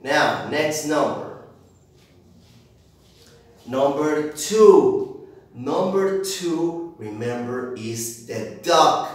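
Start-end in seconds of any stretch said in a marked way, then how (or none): 3.7-9.1 put-on slow, sing-song voice for little kids; drawn out like for a toddler; reading to a toddler. Teacher presenting numbers to small children.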